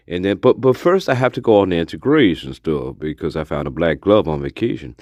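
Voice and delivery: a hint of a deadpan true-crime guy telling his glove story; mild mock Chris McKenna, pitched a bit low; Chris McKenna impression. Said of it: "that was my terrible Chris McKenna impression".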